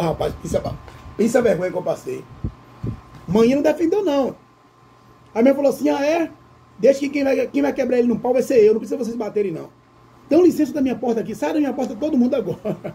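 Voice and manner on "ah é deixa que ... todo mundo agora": stern mother. Retold or imitated. Mother orders girls away, retold.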